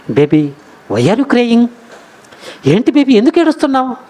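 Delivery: imitating a doting husband, pitched high; loving concern. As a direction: coax a crying wife tenderly. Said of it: "ఎంత ప్రేమగా పిలుచుంటాడండి". (ప్రేమగా బుజ్జగించే భర్త అనుకరణ)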